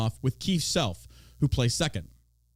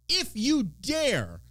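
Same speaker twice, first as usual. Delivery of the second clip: slow ominous warning; 8 semitones higher, much slower than usual. Acted. Warning local Republicans, drawn out slowly. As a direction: stretch out if you dare, very slowly.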